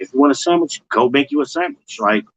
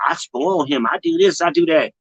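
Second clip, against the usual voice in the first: mock boasting; 4 semitones higher than usual. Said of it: "a lot of y'all gonna say".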